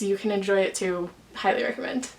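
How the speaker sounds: breathless after a long ramble; out of breath. Real, not acted. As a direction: talk short of breath, winded. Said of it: "I'm, like, out of breath".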